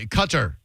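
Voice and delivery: Qatar stressed on the second syllable, kuh-TAR; Qatar said the English way. Shown as a demonstration. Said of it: "the most common English pronunciation".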